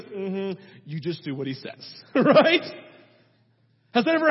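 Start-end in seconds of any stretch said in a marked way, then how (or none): 0.0-2.0 low, soft, knowing aside; Mary, unfazed mother. Retold or imitated. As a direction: imitate a mother calmly carrying on. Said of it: "And she goes".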